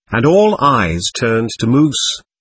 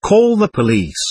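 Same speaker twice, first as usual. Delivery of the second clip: higher, sharp cry for help; 8 semitones higher than usual. A narrator's reading. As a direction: shout it out in alarm. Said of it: "someone else cried".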